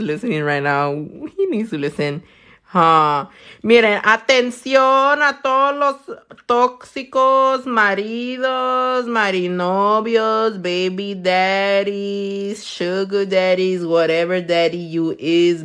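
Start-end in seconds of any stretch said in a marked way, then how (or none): 3.6-15.6 slow, stretched-out town crier call; mock public announcement. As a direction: call everyone to attention, drawing out each title.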